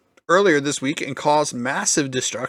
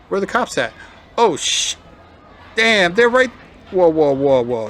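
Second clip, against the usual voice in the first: surprised reaction; 5 semitones higher, 6 dB louder than usual. Real, not acted. Reacting to the video.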